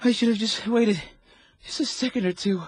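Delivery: high, loud guilt-stricken cry; anguished delirium. Acted. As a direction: cry it out as if reliving it. Delirious soldier crying out guilt.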